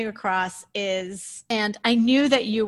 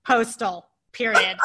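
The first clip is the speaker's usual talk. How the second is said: dictating; 5 dB louder than usual. Shown as a demonstration. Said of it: "I copied this down".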